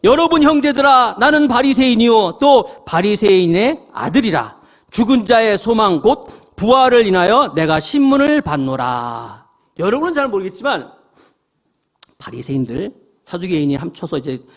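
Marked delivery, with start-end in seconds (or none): 0.0-9.5 loud, raised proclamation; crying out. Acted. Paul crying out to the council about resurrection, loud proclamation. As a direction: call out to the whole council. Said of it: "공회에서 외쳐".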